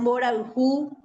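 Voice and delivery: "Boraljú" said clearly in Guaraní; Guaraní word. Shown as a demonstration. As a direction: give "Boraljú" its Guaraní sounds. (pronunciación guaraní de "Boraljú")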